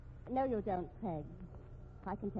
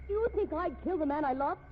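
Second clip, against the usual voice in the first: indignant outburst; 4 semitones higher, 6 dB louder than usual. Acted. Accused widow protests.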